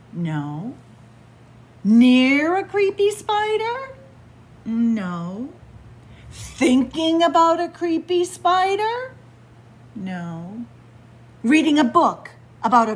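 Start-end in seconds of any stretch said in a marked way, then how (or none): 1.8-9.1 high, loud worried questions; mock anxious questioning. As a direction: keep asking, growing nervous.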